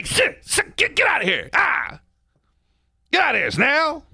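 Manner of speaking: high, hammed-up shoo with the hose; shouting him off. Hosing the man off the street, yelling. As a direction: chase him off with a yell. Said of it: "and you say".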